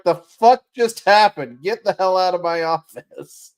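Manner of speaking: hammed-up angry CEO; mock startled boss. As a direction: bellow like a shocked CEO. Imitating startled CEO yelling.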